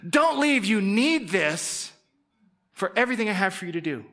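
Jesus urgently begging his disciples to stay; Jesus urging. Retold or imitated. Jesus telling his disciples to stay, urgent and pleading. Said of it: "he's like".

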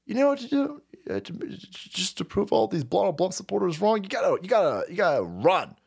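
lightly voiced pushy advisor; aide advising. Team member pitching the run to Biden, lightly voiced. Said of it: "constantly telling him".

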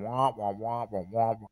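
Charlie Brown teacher wah wah; muffled wah wah talk. Retold or imitated. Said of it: "Charlie Brown".

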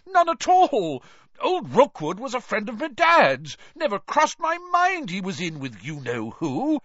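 high, earnest pleading voice; earnest protest over the crowd; earnest Bagman. A narrator's reading. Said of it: "Bagman called earnestly".

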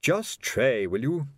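mildly exasperated request; weary. A narrator's reading. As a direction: tiredly urge him to behave. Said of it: "said Colon wearily".

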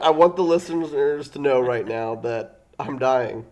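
stuffy, sick voice; sick and stuffed up, mock dramatic; blocked nose. Real, not acted. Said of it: "I can't breathe through my nose".

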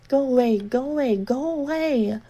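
frantic repeated go away; panicked shout. Acted. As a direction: drive her off.

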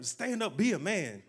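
firm exhortation. Acted. Preacher imagining grabbing a whiner, firm command. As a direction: urge him to his feet with force.

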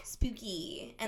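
slow spooky whisper. Pretend. Describing spooky story.

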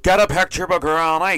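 high, loud call; loud party host. Retold or imitated. Host calling out at a house party, loud.

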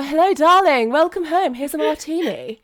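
high, loud glamorous housewife voice; femme fatale. Pretend. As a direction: purr it like a sultry 1920s wife. Playing 1920s housewife greeting husband.

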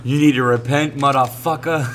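mock preacher scolding with a laugh; lightly voiced angry preacher lady; imitating the street preacher. Podcaster retelling the farmers market preacher, mock scolding.

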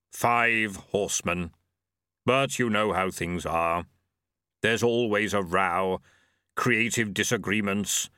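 wistful grim reaper. Acted. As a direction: sigh over the old days. Death reminiscing.

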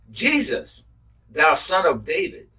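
high, loud cry for help. Acted. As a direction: call out to Jesus from the roadside. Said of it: "And he cries, saying".

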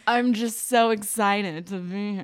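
gushing tourist. Retold or imitated. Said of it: "I was basically like".

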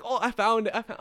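high, loud imitation of an eager find; mock excited listeners. Friends finding the podcast on Spotify, mock excitement. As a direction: squeal it out as an excited fan.

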